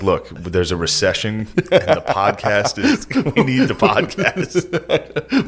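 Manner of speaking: laughing mock quote. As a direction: laugh through the mock plea. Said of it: "just being like".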